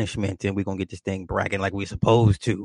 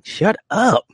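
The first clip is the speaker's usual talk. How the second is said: sharp retort; 7 semitones higher, slower than usual. Real, not acted. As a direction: bark it back playfully. Mock scolding someone in room.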